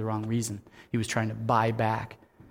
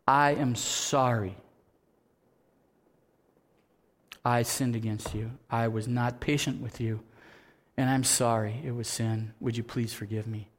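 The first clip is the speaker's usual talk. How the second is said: sincere apology; 2 semitones lower than usual. Shown as a demonstration. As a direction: ask forgiveness gently and humbly.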